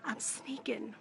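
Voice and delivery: real furtive undertone; sneaky whisper. Real, not acted. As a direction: whisper it like you're sneaking around. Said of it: "I'm kinda whispering".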